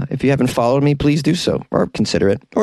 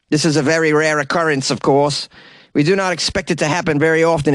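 put-on South African accent; 3 semitones higher than usual. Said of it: "What's a South African accent?".

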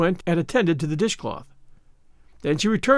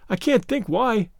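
higher, slow puzzlement; bewildered; 5 semitones higher, slower than usual. Acted. Anne can't explain her own tears, bewildered. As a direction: wonder aloud, mildly baffled. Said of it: "in a tone of bewilderment".

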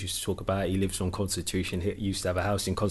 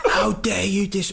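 high, slow mock fury, laughing through it; imitating Bobby's rage; 8 semitones higher, slower than usual. Manager snaps at the player in mock slow fury. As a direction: act out the manager's outburst while laughing. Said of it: "Then Bobby's gone".

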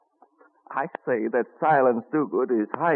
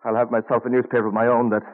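loud, stubborn vow; defiant; 4 dB louder than usual. Acted. Benjamin, just beaten, defiantly tells his brother James he'll run away. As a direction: throw the promise back at him. Ben defiant after the beating.

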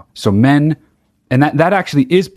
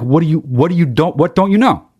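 high, honestly baffled question; really asking, not pushing him; genuinely puzzled; 6 semitones higher than usual. Shown as a demonstration. Friend sincerely asks a guy what he doesn't know, high and baffled.

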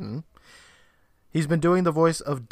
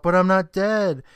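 mild yelled protest, pitched up; half-yelled, higher-pitched objection; retold yell; 6 semitones higher, 4 dB louder than usual. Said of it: "Chris yells out".

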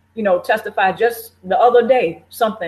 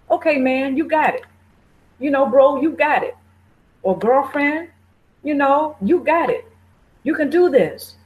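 higher, bright encouraging cheer; loving pep talk; 3 semitones higher than usual. Retold or imitated. Cheering yourself on through a challenge, encouraging. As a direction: lift them up like a proud friend. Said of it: "Do you lovingly pep talk yourself?".

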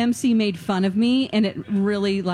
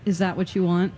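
can't-be-bothered question; lackadaisical Siri. Retold or imitated. User imitates her Siri answering, lackadaisical. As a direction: offer it with little interest. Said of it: "Very lackadaisical".

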